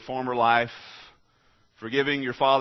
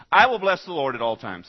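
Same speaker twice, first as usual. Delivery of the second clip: confident; 2 semitones higher, 6 dB louder than usual. Retold or imitated. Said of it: "he says, confidently".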